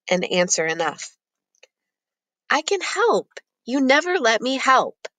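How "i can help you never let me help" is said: put-on high, pleading boy voice; insist, wounded and pleading; frustrated pleading. A narrator's reading.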